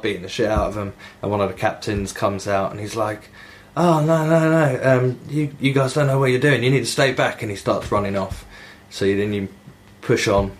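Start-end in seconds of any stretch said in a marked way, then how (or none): 3.8-7.4 higher-pitched protest, lightly acted; mock-panicked opening easing into warning; retold flustered captain. Captain warning the kids to stay back, mock flustered.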